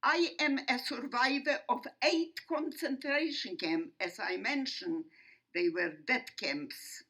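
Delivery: emphatic, measured oratory with weighty pauses; formal testimony speech. Real, not acted. Survivor addressing an audience about the Holocaust, formal and emphatic. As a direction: declaim it firmly, phrase by phrase. Delivers prepared opening of testimony.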